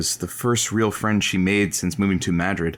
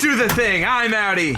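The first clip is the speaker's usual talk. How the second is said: higher and louder, cocky exit; pumped up; 11 semitones higher, 5 dB louder than usual. Acted. Caller leaving the advice show, pumped-up exit. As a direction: leave on a high.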